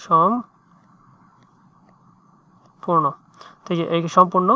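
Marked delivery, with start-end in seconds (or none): 0.1-3.0 word drawn out very slowly while writing; slow dictation. Shown as a demonstration. Tutor spelling the word aloud to a student, very slow. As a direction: stretch each sound out for the student to copy. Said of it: "সম্পূর্ণ এখানে লিখতেছি".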